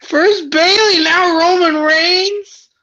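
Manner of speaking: slow, sobbing lament; mock crying. Skeeter, crying over his heroes turning heel, sobs slowly. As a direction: wail it like a heartbroken fan. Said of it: "Are you crying?".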